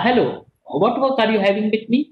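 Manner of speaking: gentle, polite asking; soft polite question. Shown as a demonstration. Teacher shows a visitor the soft, polite way. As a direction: ask kindly and softly. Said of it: "In the first, I was soft".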